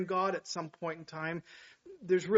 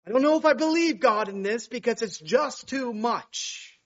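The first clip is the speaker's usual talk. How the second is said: mild doubting Christian; 5 semitones higher, 7 dB louder than usual. Retold or imitated. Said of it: "we can rebel also".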